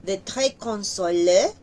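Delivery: "consolé" ending on one clear é; French é demo. Shown as a demonstration. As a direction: finish "consolé" on a single é. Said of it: "Miren, consolé". ("consolé" con una sola é)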